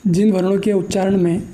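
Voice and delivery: slow, word by word with long pauses; slow dictation. Shown as a demonstration. Teacher dictating a definition for students to copy, slow and spaced. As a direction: dictate it slowly so students can write.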